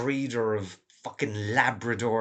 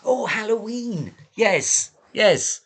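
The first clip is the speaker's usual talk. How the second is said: sudden loud, much higher outburst; excited; 11 semitones higher, 9 dB louder, slower than usual. Real, not acted. Host suddenly remembers the Halloween topic, loud and excited. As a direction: blurt it out as it hits you.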